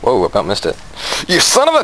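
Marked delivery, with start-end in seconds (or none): 1.3-1.8 high exasperated yell; frustrated shout. Real, not acted. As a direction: cut the curse off mid-yell. Frustration in game.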